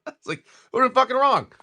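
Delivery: high, laughing repeat of his own comeback. Real, not acted. Retelling his retort to his wife, laughing. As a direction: crack up while repeating it.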